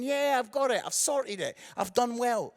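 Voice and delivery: mildly self-satisfied inner voice; a touch of pleased self-congratulation; smug. Retold or imitated. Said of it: "I was pretty smug, thinking".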